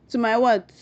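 laughing question at herself; amused laughing question. Real, not acted. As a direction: laugh through the words.

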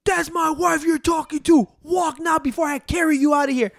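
husband warns off the man who confronted his wife; retold angry warning. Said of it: "and he goes".

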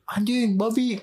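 high-pitched mock yell, no real volume; retold yell. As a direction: imitate kids yelling swear words outside.

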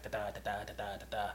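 quiet, low run of heartbeat beats; soft, even "da" pulse; fast heartbeat. Shown as a demonstration. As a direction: imitate a racing pulse under your breath. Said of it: "It's just fast".

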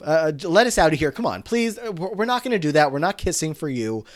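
high-pitched mock pleading; protesting plea. Boys begging Sue to let them out, mock protest. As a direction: plead and refuse in a lightly acted high voice.

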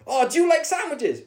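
a touch of a chirpy presenter; lightly voiced cheery TV host. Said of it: "some sort of T V presenter type person".

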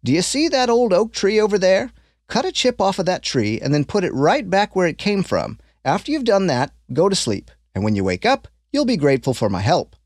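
lightly voiced kindly old man; a hint of an old stranger, curious; old man sizing up the boy's honesty, lightly voiced. Old man gives advice.

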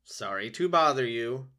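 a touch of polite friendliness; apologizing sweetly to the neighbors; friendliest voice. Acted. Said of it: "in her friendliest voice".

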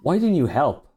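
high, loud, eerie ghost voice; a ghastly, nasally spectre asking. A narrator's reading. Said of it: "in a voice now ghastly, nasally thing".

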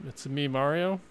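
softly half-hearted cartoon Italian; Mario. Shown as a demonstration. Friend suggesting a starting phrase, tentative cartoon Italian. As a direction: barely attempt the video-game plumber's accent. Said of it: "you could go with the Mario".

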